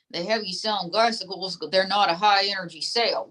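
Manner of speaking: lightly voiced folksy dummy; ventriloquist dummy.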